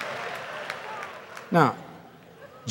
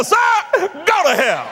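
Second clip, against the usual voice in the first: retold punchline; 13 semitones higher, slower than usual.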